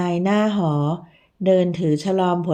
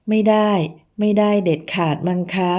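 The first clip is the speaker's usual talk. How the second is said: cracking cry. Acted. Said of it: "ผินร้องเสียงหลง".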